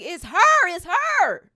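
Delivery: high, loud squeal of disbelief; excited screaming. Retold or imitated. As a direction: scream it like you just saw your idol. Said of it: "I'm screaming".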